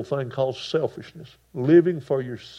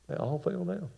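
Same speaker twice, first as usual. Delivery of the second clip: softer, higher repeat; quiet echo; 6 semitones higher, 8 dB quieter than usual. Acted. Preacher repeating how the soldiers fell, softer. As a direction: let the words drop to a hush. Repeat of line at lower volume.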